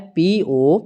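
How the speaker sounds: slow, evenly spaced letter-by-letter spelling; teacher dictating letters one at a time. Shown as a demonstration. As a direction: read each letter out slowly for the class. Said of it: "next word दिया है".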